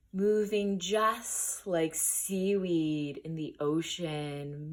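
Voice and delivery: unhurried guided breathing, long pauses between phrases; guided meditation. Acted. Teacher guiding listeners into the breath, measured meditation voice. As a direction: lead listeners gently through noticing each breath.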